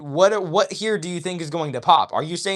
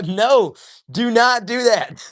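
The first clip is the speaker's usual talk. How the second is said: louder, higher, insistent no; emphatic objection; 7 semitones higher, 5 dB louder, much slower than usual. Real, not acted. Streamer tells chat not to donate everything, emphatic objection. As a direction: shut the idea down firmly and loudly.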